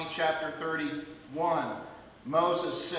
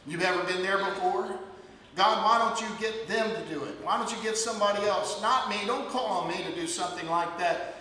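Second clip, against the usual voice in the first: reluctant whining; 3 semitones higher, faster than usual. Acted. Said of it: "in reluctance".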